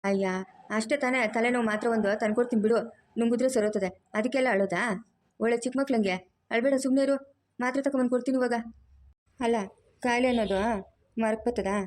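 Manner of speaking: a mother-in-law who fusses and scolds at once; bossy mother-in-law. Acted. Mother-in-law finds her daughter-in-law crying, scolds and comforts.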